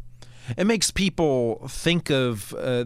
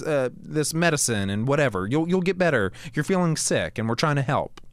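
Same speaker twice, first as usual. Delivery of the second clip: cooing to a pet; 5 semitones higher than usual. Retold or imitated. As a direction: coo at the sick dog like it's a baby. Owner soothing a sick dog.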